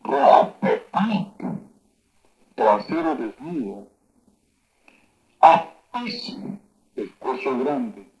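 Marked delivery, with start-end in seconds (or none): 0.0-1.6 Rapepato said slow, high and loud, letting air out; breathy demo word. Shown as a demonstration. Teacher showing a word to the class, slow and airy. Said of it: "siempre soltando un poco de aire". 5.4-6.6 Apicio said slow, high and loud with air escaping; breathy demo word. Shown as a demonstration. Teacher shows a native word, slow airy high. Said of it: "siempre soltando un poco de aire".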